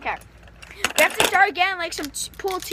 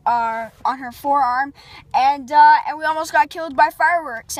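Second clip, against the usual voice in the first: vlog host; 4 dB louder than usual. Acted. Vlog intro to camera.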